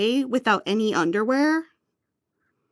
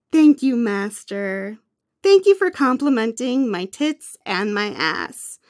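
cowed obedience. Acted. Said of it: "How am I supposed to sound like an obedient servant".

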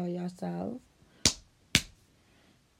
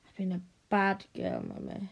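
begging line. Shown as a demonstration.

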